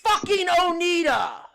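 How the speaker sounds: loud frustrated shout; angry shout. Real, not acted. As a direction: yell the name in frustration. Cursing the device loudly.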